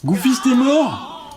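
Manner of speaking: high, drawn-out cry of disbelief; shocked outcry. Real, not acted. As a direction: cry it out, stunned. Game character has died. (cri aigu de stupeur)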